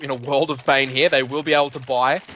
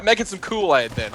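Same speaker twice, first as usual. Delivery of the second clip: put-on higher, half-hearted American accent; attempted American accent; 4 semitones higher than usual. Caster swaps tea for Kool-Aid, mock American accent. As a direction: switch to a joking American accent. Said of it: "I don't have an American accent".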